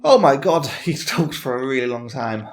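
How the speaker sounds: breathless after long reading; panting from reading aloud; out of breath. Real, not acted. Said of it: "Oh, I'm out of breath".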